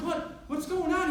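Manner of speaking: high, loud frantic question; panicked yell. Retold or imitated. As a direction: demand it in panic. Panicked confusion.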